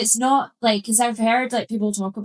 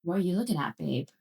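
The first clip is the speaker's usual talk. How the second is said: aggressive babe; 3 semitones lower, 7 dB quieter, faster than usual. Retold or imitated. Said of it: "use the word babe and be like".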